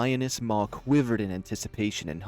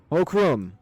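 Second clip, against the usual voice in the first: loud, raised bellow of the name; roaring; 9 dB louder than usual. Acted. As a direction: roar out for your prey. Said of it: "flinching at the roaring of his name".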